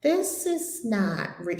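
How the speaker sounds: slow, deliberate quoted realization; sudden realization. Retold or imitated. Retelling what the trapped woman said, slow realization. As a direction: say it slowly, as if it dawns. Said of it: "all of a sudden, she said".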